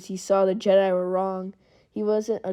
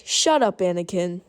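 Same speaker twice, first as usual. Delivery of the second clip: annoyed shout; 4 dB louder than usual. Retold or imitated. Obi-Wan shouting at Anakin to shut up, annoyed. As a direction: snap at him to stop teasing.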